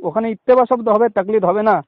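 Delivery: choppy phone line, words dropping out; radio breaking up. Real, not acted. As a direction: voice cutting in and out. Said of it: "কথা কেটে কেটে আসছে কেন?".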